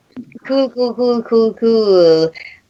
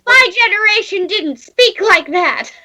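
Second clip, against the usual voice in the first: high grumbling orc voice; much higher mock-offended orc; grumpy old orc; 11 semitones higher than usual. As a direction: huff like an offended elder orc.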